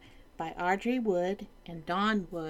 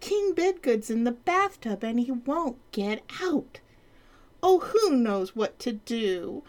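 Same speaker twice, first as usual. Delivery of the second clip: higher fretting page voice; fretful page; 5 semitones higher, 3 dB louder than usual. Acted. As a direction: wring hands as the page. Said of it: "cried the court".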